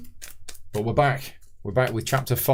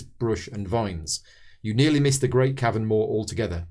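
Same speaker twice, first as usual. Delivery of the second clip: measured scenario read-aloud; story narration. A narrator's reading. Host reading the scenario intro to fellow players, narrating.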